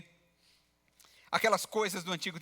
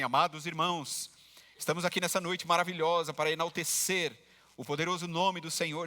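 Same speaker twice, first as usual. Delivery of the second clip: mock-solemn, lower pulpit intonation; solemn pulpit pastor; 3 semitones lower than usual. Preacher parodies a pastor addressing the congregation, mock-solemn. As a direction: put on a ceremonious preacher's voice. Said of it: "ele mudou até a entonação da voz dele".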